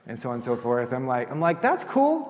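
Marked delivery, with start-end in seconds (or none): 1.6-2.3 high, sugary mock politeness; sarcastic sweetness. Pastor to spying neighbor, high mock-sweet reply. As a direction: chirp it back falsely sweet.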